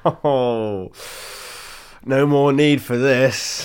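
loud, slow mock maniacal yell; hammed-up maniacal shout. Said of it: "He yelled maniacally".

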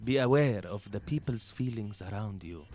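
lightly voiced patient Arab dad, low and soft toward the end; understanding liberal dad. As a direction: reason softly with your child. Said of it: "You know, that kind of dad".

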